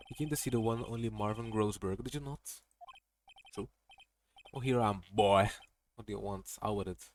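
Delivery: put-on pompous old lawyer. Grossberg voice.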